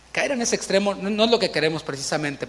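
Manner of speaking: normal talking voice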